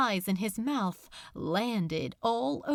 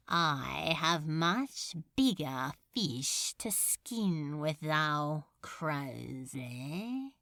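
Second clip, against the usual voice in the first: menacing demon lord; 5 semitones lower than usual. Acted. Demon lord taunting a cowering demon, low and silky. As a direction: purr it like a bored demon lord. Beelzebub voiced in story.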